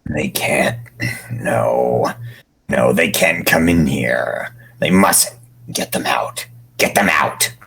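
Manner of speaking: low hushed whisper, pleading; desperate whisper. Acted. The prophet begging in a frightened whisper.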